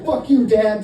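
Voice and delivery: mock angry thought. LeBron's inner thought while dunking.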